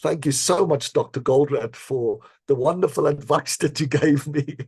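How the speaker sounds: retold sarcastic thank-you, laughing through it. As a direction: drip mock gratitude all over it. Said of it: "in my most sarcastic tone of voice".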